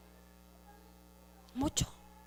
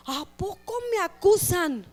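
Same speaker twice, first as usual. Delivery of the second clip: mock-scandalised, higher and louder; shocked disbelief; 4 semitones higher, 5 dB louder than usual. Leader hearing that people tell on him, shocked. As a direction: act taken aback, pitch jumping up. Acted shock at being accused.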